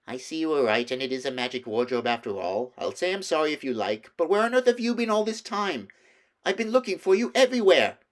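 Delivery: snappy, rising to loud and high; irritable boy snapping back; snappish. A narrator's reading. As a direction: Edmund snapping at Lucy. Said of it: "how snappishly Edmund spoke".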